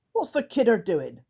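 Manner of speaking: sneering little creature peering up; creaker voice. Acted. Creaker asks about the crying girl, puzzled creature voice.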